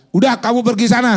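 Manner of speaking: mock dismissive voice of God sending you off alone; dismissive brush-off. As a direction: shoo someone off curtly.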